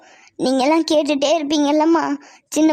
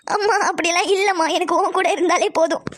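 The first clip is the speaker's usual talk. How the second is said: tearful protest; 3 semitones higher than usual. Acted. Child protests to ailing mother.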